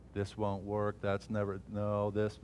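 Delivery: soft, belittling inner voice; quiet mocking voice. The enemy taunting a believer in his head, softly mocking. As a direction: hush the doubts like a taunting thought. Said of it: "mock it".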